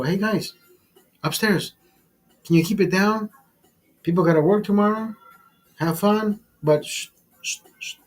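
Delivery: polite hush. Retold or imitated. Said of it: "I wasn't disrespectful".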